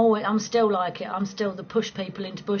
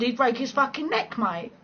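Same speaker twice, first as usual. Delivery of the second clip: ordinary talk, nothing marked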